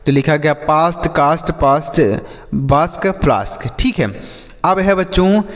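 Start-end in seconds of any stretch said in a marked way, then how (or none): 0.6-2.0 पास्ट, कास्ट with a long "aa"; long aa vowel. Shown as a demonstration. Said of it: "आ की मात्रा का उच्चारण". 2.5-3.7 बास्क, फ्लास्क with a long "aa"; long aa vowel. Shown as a demonstration. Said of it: "आ की मात्रा का उच्चारण".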